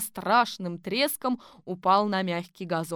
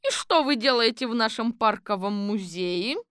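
suspicious; 3 semitones higher, 4 dB louder than usual. Acted. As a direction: demand to know who he is. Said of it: "подозрительно спросила она". (громко и подозрительно, голос выше)

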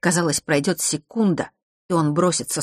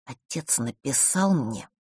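slow, softer, reluctant delivery; forced out; 5 dB quieter, slower than usual. A narrator's reading. Nort reluctantly passes on father's message, forcing it out. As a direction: force the words out grudgingly. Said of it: "процедил он".

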